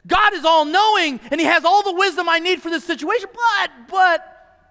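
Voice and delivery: caught-out adult stalling, voice climbing; hesitant adults. Retold or imitated. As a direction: hem and haw like a nervous grown-up. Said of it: "Isn't that what we do?".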